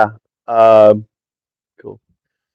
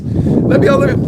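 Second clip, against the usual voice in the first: retold desperate plea; 12 semitones higher than usual. Pleading to board closing plane.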